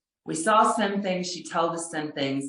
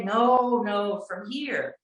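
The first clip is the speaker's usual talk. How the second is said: put-on insisting, higher, in a rough Irish accent; pretend Irish accent; 4 semitones higher, slower than usual. Irish local pressing a visitor about her roots, in a mock Irish accent. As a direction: correct her gently in a loose Irish accent. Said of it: "with an Irish accent that I can't even do".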